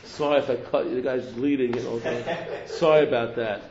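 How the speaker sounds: a careless guy brushing off a stab wound with a chuckle; mock apologetic grabber. Guy who stabbed someone grabbing food.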